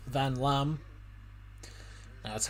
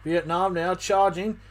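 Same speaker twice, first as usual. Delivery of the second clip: excited call; 6 semitones higher, 6 dB louder than usual. Real, not acted. Live call of Vietnam attack.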